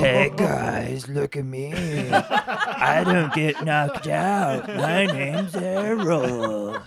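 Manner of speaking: high, loud, slow mocking Errol voice; mock a friend in a silly high voice; squeaky falsetto mockery. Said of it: "That's not what I sound like".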